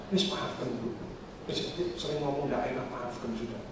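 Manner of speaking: soft, low urging to forgive; retold gentle coaxing. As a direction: re-enact a quiet, soothing word to a patient. Membujuk pasien untuk memaafkan. (menirukan bujukan lembut dengan suara pelan)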